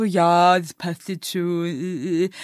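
low, slow noncommittal mumble; imitating indifferent men. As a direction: play a man half-heartedly letting it slide, trailing into hesitant noises. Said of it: "viele Männer sind dann auch so".

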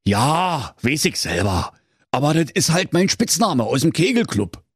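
lightly voiced sheepish king; a hint of a blushing Berlin monarch; embarrassed king. A narrator's reading. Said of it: "Da errötete der König".

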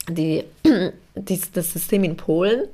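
throat catching, clearing it mid-sentence; frog in throat. Real, not acted. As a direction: talk past a tickle in the throat. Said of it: "ich hab irgendwas im Hals ein bisschen".

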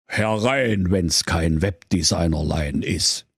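put-on low, odd old quack; quack doctor voice. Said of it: "Der Quacksalber Sauerbier ... sprach".

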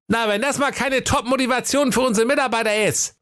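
very high, gleeful exclamation; pleased Wilhelm. Acted. Wilhelm delights at the staff punishments, very high. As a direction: relish the harsh rule. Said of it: "rief der Wilhelm erfreut".

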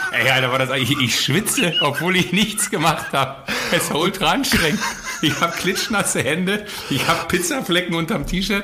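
high and laughing through words; giggly disbelief, breathless. Real, not acted. Laughing after silent minute.

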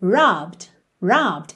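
Robbed said as one syllable, no E sound; Robbed with a silent E. Shown as a demonstration. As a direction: clip Robbed straight from B to D. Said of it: "a gente não passa por esse E".

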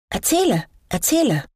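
high-pitched, eager acted plea; children calling out. A narrator's reading. Children urging the storyteller on, calling out high. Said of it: "klatschten in die Hände und riefen".

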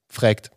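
"fragt" said as Bavarian "frägt"; "fragt" with the a shifted to ä; dialect pronunciation. Retold or imitated. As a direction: say "fragt" with an umlauted vowel, frägt. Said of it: "dann sagt er nicht Fragen, sondern".

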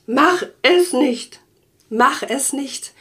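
slow, imploring friends begging; pleading. Retold or imitated. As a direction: beg her slowly to hold back. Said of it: "Ich bitte dich".

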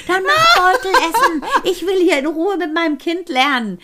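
mock outburst dissolving into laughter; laughing exasperated quote. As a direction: replay the friend's outburst while cracking up. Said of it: "Ich musste so lachen".

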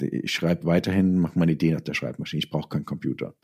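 quoting his father, dropping to a soft murmur; quoting his father quietly. Retold or imitated. Son quoting his father rejecting the computer, softly. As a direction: let the father's stubborn words fade away quietly. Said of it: "hat er gesagt".

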